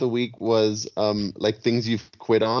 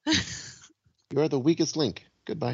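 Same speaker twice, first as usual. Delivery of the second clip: game show host; 4 semitones higher, 5 dB quieter than usual. Pretend. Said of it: "quiz host catchphrase".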